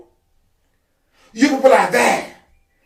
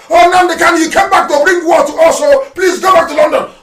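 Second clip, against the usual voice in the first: mock whining; 5 semitones higher, 3 dB louder than usual. Mocking quoted critics.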